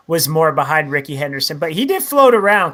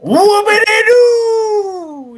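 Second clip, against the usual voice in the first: sarcastic cheer; 7 dB louder, much slower than usual. Real, not acted. Mock cheer at a dull news item.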